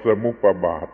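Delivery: สมุปบาท with an extra pa, sa-mup-pa-bat; wrong pronunciation. Shown as a demonstration. Teacher warning listeners what not to say, mispronounced สมุปบาท as sa-mup-pa-bat. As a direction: slip a short pa before bat in สมุปบาท. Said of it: "อย่าว่าสมุปบาท".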